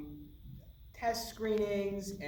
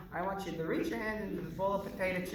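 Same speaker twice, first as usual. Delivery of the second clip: imitating the voice; faster than usual. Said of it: "You got to do the voice".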